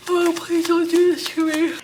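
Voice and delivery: exasperated plea. Real, not acted. Groaning at a bad card.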